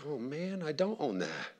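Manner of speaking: hammed-up little moan of disappointment; mock sad. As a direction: play the let-down customer, lightly. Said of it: "I'm sad. I feel negative".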